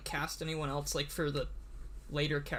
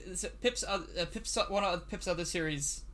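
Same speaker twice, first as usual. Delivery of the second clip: nervous stumbling over words; stuttering. Real, not acted. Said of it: "Sorry about all the stuttering".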